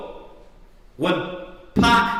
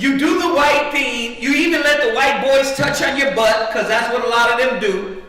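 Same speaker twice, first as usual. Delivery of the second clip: raised preacher's accusation; impassioned preaching; 3 semitones higher than usual. Real, not acted. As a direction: lay out the charge to the congregation. Preaches at full force.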